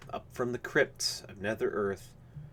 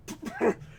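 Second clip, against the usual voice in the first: high wordless splutter of outrage; apoplectic sputter. A narrator's reading. Aspinwall reacts to old Phillips, sputtering apoplectically. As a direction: sputter before the words come. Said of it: "as he sputtered".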